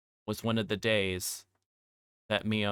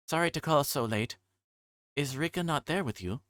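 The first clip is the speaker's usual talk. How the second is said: put-on higher, polite girl's voice; a small girl asking, worried; young girl Satoko; 6 semitones higher than usual. Satoko asking Shion where Rika is, higher girlish.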